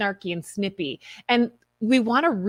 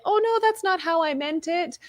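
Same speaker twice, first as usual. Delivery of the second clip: much higher, apologetic fake surprise; backpedaling innocently; 9 semitones higher than usual. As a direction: backpedal with wide-eyed innocence. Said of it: "I could have easily been like".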